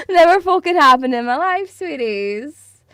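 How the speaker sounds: loud, high laughing exclamation; laughing self-mockery. Real, not acted. Streamer jokes to viewers about never being flirted with, laughing. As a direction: burst out laughing at yourself.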